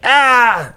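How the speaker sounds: put-on high pained "Ah" like a hurt child; kid's pained cry. Child yelping at his parent about the sand. Kid crying out in story.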